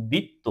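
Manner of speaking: দ্বিত্ব said as "ditto"; দ্বিত্ব with no b or w after the d; silent first ব. Shown as a demonstration. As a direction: say দ্বিত্ব with a plain d at the start. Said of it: "যে উচ্চারণটা কি".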